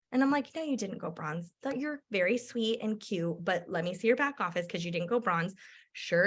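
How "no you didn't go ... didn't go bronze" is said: reassuring. Retold or imitated. Reassuring friend she misread.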